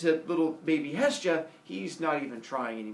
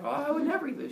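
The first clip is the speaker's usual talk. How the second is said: high, protesting mock innocence; feigned innocence; 11 semitones higher, faster than usual. Kronos assuring his wife, high fake-innocent voice. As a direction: protest too much in a lifted pitch.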